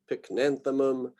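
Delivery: pycnanthemum with the beat on NAN; stress on third-to-last syllable. Shown as a demonstration. Lecturer showing students genus names, antepenultimate stress on pycnanthemum. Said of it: "pronounce that as the emphasized syllable".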